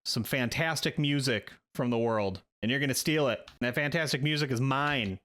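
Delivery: a hint of an aggrieved musician; lightly played self-important band man; lightly voiced Rusty, aggrieved. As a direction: grumble about the label in character. Game master voices Rusty's grievance.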